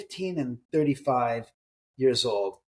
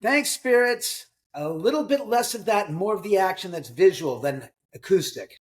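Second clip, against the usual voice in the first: mock thanks; 6 semitones higher than usual. Host answering a noise from spirits, mock-grateful. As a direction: playfully chide unseen company in a raised pitch. Wry aside to noisy spirits.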